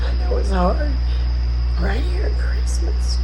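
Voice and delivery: high, loud tearful voice that keeps breaking; really crying while asking for prayers; upset and crying. Real, not acted. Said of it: "I'm sorry I'm upset on this video".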